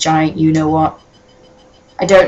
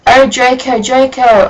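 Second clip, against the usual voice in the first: a touch higher, hammed-up moan of a name; mock passionate cry; 5 semitones higher, 3 dB louder than usual. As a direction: lightly overact the passion. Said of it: "I screamed while getting an orgasm".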